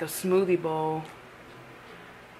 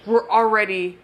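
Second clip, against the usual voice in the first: finger holding lip down; talking with finger on lip. Real, not acted. Seen 0: finger pulls lower lip down, showing bottom teeth, while speaking.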